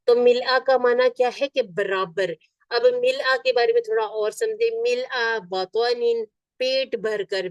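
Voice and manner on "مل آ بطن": slow model phrase. Shown as a demonstration. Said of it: "teacher models Arabic phrase".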